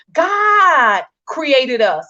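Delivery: slow, tearful catch in the voice; choked up with real feeling; "God created us" drawn out slowly through tears; getting emotional. Real, not acted. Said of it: "I'm about to get emotional".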